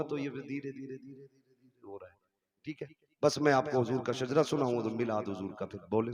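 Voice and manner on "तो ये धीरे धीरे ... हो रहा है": fading away. Shown as a demonstration. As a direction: voice steadily dropping softer. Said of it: "जो मैं अपने रविश में बोलता हूँ ना". (आवाज़ धीरे-धीरे घटाते हुए)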